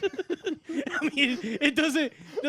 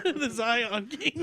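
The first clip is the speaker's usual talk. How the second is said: slow, drawn-out trailer announcement; mock movie-trailer title; dramatic movie title; much slower than usual. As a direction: intone it like a film trailer voice.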